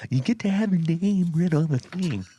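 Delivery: high, far cartoon announcer; vintage cartoon voice. Shown as a demonstration. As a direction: ham it up like an old cartoon. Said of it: "Lean, lean into the mic".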